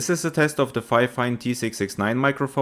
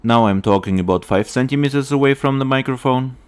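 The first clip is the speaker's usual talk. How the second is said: close mic with pop filter; 5 dB louder than usual. Real, not acted. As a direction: close up, pops softened by filter. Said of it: "with an additional pop filter".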